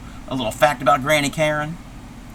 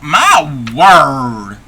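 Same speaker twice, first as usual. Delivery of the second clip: shocked exclamation; 6 dB louder than usual. Acted.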